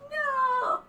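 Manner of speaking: high, breathless laughing through words; can't stop laughing; laughing hysterically. Real, not acted. Breaks down laughing after impression.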